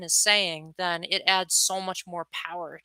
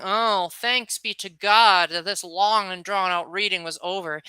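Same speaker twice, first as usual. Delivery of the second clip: relieved sarcastic thanks. Retold or imitated. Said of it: "it can come across as though you're saying".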